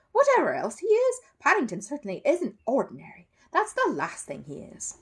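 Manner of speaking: high, loud firm defence of the bear; lightly voiced stern Mrs Bird; stern housekeeper. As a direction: put the stranger in his place.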